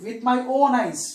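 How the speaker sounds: loud, emphatic "own"; stress on "own". Shown as a demonstration. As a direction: hit "own" hard, then fall on "eyes".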